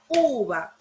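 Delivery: "Uva" with the first vowel held and stressed. Shown as a demonstration. Teacher shows class the accented letter, "Uva" stressed on U. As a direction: lean on U in "Uva", drop the va. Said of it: "Lleva el acento en la letra U".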